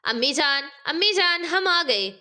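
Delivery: put-on children calling out on arriving home. A narrator's reading. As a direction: call home to mom. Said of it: "زور سے آواز لگانے لگے".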